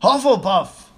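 high, loud announcing shout. A narrator's reading. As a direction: shout the verdict to the hall. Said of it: "shouted the hat again".

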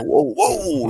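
high, drawn-out mock-panicked whoa; alarmed whoa. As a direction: cry out as if your stomach just betrayed you. Acts out stomach panic in story.

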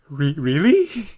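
slow, drawn-out disbelieving really; mock her disbelief. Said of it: "The disbelief in Emma's voice".

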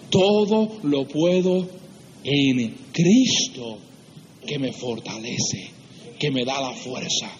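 very slow, weighted phrases; solemn recitation. Acted. Preacher quoting the verse of strength, solemn and slow.

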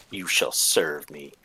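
low, slow, grave oath; solemn vow. Acted. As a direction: intone it like a knight swearing. Pancake vows to the blade.

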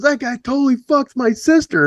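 high mock heckler voice; heckler yelling. Heckler insisting to the singer across the room, high mock yell. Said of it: "He goes".

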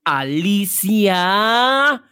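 showman host presenting a star; grand entrance announcement. Pretend. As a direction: stretch out the final name grandly. Host introduces the boss. (gran anuncio de entrada, alargando Alicia Bonilla)

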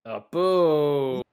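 drawn-out playful jeer; mock booing. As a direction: boo your friend's choice. Jeering friend's apple choice.

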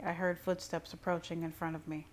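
plain reading voice

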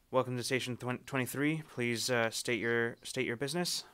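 weary dispatcher over the comms; tired station operator. Acted. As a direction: sound bored and worn out. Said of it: "tired sounding voice come over the comms".

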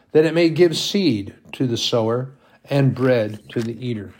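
solemn bible reading; scripture reading. Acted. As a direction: read it like holy writ, measured. Reads scripture aloud.

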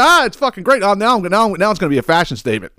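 high, gushing mock delight; mock excited girl. Host voicing the girl's delight about her mustache, high and mock-giddy. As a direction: gush like it's the best news ever. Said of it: "she's like".

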